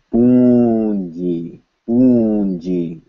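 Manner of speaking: "Poonji" with nasal vowel into n before j; audible N. Shown as a demonstration. Teacher giving an example to students, audible N. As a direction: let the n ring in "Poonji". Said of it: "you will hear an N".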